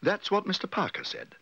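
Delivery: high, delighted little bear; excited high-pitched agreement; exclaiming. A narrator's reading. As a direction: agree eagerly, pitched well up. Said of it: "exclaimed Paddington".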